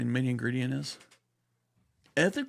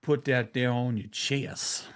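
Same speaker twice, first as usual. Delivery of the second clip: corrected great aunt, mildly slowed. Retold or imitated. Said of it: "My Aunt Evelyn didn't talk like that".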